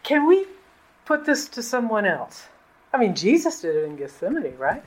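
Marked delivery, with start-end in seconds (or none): 0.0-2.5 higher, tentative acted request; lightly acted attempt to get out of it; doubting plea. Preacher voicing a doubter asking God for relief, tentatively pleading. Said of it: "It's okay to say".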